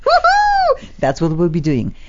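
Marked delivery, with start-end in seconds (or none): 0.1-0.9 real laughter, higher and louder; laughing. Real, not acted. Host laughing with the guest over a promise, laughing. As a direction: laugh through the words.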